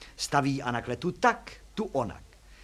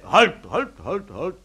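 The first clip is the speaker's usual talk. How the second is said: startled; 3 semitones higher, 7 dB louder, slower than usual. A narrator's reading. Taxi driver objects to the jack, startled. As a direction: burst out to stop them, loudly. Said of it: "polekal se pan Kosínka".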